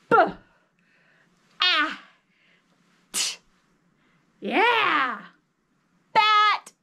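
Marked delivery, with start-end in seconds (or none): 0.1-3.4 B, A, T each hit short and separate; punched sounds. Shown as a demonstration. Teacher breaking a word into sounds, punching each one. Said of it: "let's punch 'em".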